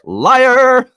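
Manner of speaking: high, very loud laughing "Liar!"; joking shout. Retold or imitated. Mocking the drunk concertgoer with a loud teasing shout. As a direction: yell it in teasing disbelief. I'm just kidding.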